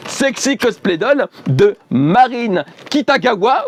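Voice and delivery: "Sexy Cosplay Doll de Marine Kitagawa" said slowly with French vowels, not English; à la française, lentement; French pronunciation. Shown as a demonstration. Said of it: "je fais bien exprès de le dire en français".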